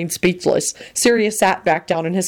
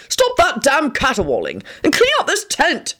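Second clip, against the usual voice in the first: threatening snarl; 10 semitones higher than usual. Acted. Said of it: "he snarled threateningly".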